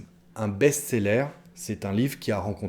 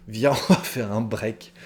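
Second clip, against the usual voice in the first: laughing demo. Shown as a demonstration. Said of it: "on prononce les R".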